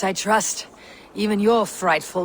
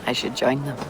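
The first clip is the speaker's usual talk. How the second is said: hushed whisper; 4 semitones lower, 5 dB quieter, faster than usual. Acted. Quiet aside leaving the feast.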